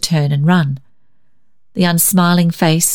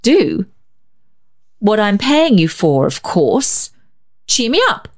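terse snap; 4 semitones higher than usual. A narrator's reading. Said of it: "snapped the woman tersely".

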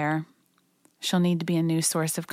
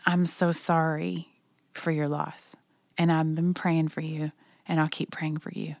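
gentle condolence. Shown as a demonstration. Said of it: "The very best thing you can say".

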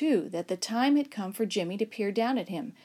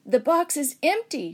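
gasped; 6 semitones higher, 5 dB louder than usual. Acted. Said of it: "she gasped".

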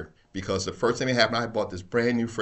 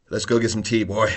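laughing through quote; 5 dB louder than usual. Retold or imitated. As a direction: laugh while saying it. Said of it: "He's like".

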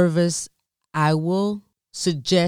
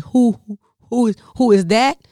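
flustered; 4 semitones higher, 3 dB louder than usual. Retold or imitated. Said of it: "I'm like".

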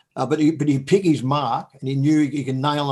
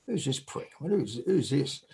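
muttered; 2 semitones lower, 10 dB quieter, slower than usual. Retold or imitated. Muttering at unknown caller.

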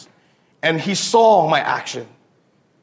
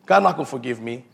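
low, lightly voiced ashamed guy; a hint of a guilty man's lament; mock remorse; 3 semitones lower than usual. Ashamed man tells himself God cannot forgive him, low mock remorse. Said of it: "the guys that go like this".

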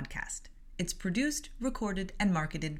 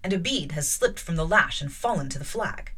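measured, louder reading voice with lightly voiced characters; story narration; 4 dB louder than usual. A narrator's reading. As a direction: read the novel aloud to listeners. Reads novel aloud with voices.

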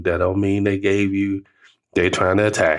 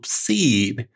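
choked up; 3 semitones higher, slower than usual. Real, not acted. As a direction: let the voice crack, then laugh. Emotional ending with laugh.

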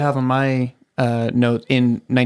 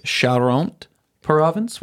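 fake French; 4 semitones higher, much slower than usual. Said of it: "That sounded French to me".

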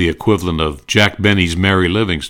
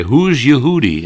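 Colonna catchphrase; 7 semitones higher, 5 dB louder than usual. Retold or imitated. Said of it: "he would run around and say".

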